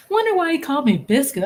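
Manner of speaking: high laughing question. Real, not acted. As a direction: laugh through the line. Laughing at the nickname.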